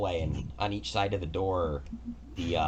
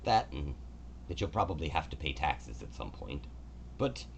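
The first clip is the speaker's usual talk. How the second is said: god Kelemvor; 3 semitones higher than usual. Acted. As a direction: speak as a gracious, orderly god. Kelemvor's long explanation.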